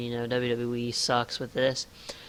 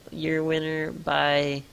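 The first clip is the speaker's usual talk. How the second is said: slow, drawn-out mock ring announcement; Lillian Garcia; 3 semitones higher, much slower than usual. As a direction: stretch it out like an announcer stalling. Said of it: "Lillian Garcia's like".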